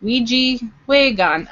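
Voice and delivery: "Ouija Wagon" said slowly, stress falling on "Wagon"; Ojibwe word. Shown as a demonstration. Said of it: "And then in Ojibwe, friend is".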